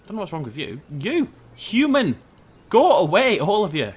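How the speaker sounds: loud, high vaguely Scottish scolding. Pretend. Player shooing humans out of the way, vaguely Scottish. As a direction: shoo them off in a rough attempt at Scottish. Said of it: "I'm going vaguely Scottish".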